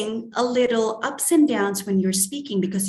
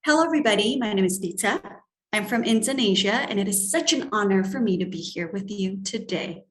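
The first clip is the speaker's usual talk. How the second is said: lively, with ups and downs; vibrant; faster than usual. Shown as a demonstration. Teacher showing a welcoming self-introduction, vibrant tone. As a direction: greet the room with a bright, inviting lift. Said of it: "put it in a more vibrant tone".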